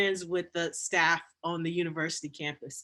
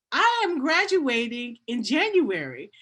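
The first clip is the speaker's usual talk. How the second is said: slow, higher, emphatic retold protest; indignant insistence, stretched out slowly; insistent protest; 4 semitones higher, 4 dB louder than usual. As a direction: spell it out firmly, word by word. Retelling her protest to advisor.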